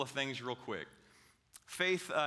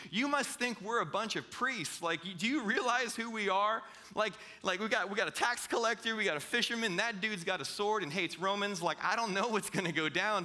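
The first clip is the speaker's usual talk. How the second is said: higher-pitched mock protest; incredulous protest; 5 semitones higher than usual. Disciples pushing back at Jesus, incredulous protest. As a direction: object in lively disbelief, pitched up.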